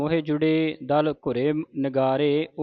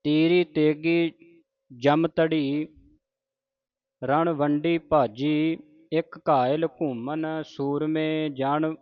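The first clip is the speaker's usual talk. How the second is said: slow, measured santhya chanting; scripture recitation. Shown as a demonstration. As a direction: recite each phrase slowly with pauses.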